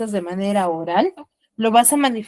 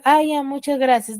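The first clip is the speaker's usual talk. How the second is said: flat thanks; 2 semitones higher than usual. Shown as a demonstration. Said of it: "De esa manera manifestarás tus gracias".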